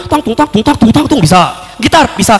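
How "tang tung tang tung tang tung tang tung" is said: higher, bouncy instrument sounds; sing-song mimicry of bamboo rattles; imitated angklung. Candidate demonstrating angklung to the interviewer, imitated notes. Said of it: "Main angklung".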